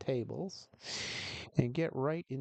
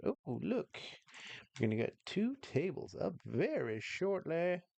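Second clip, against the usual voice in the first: showy, announcing game show host patter; 4 semitones higher than usual. Telling viewers two tables are coming up shortly: game show host voice. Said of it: "I'm talking like a game show host".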